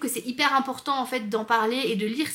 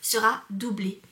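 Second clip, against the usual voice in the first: book blurb read. Acted. Reads the book blurb aloud.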